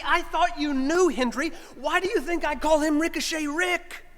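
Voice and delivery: lightly voiced friend, incredulous; voicing Eddie. Eddie answering the preacher, a touch exasperated.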